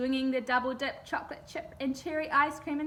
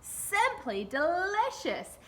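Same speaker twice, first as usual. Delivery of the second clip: higher, slow, drawn-out savouring; hungry tiger; 6 semitones higher, slower than usual. A narrator's reading. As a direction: stretch it out like a big cat tasting prey. Tiger savours the ice cream.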